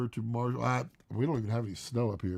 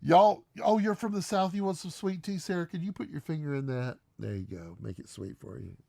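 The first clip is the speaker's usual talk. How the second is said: put-on Southern accent; 4 semitones higher than usual. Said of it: "You're like".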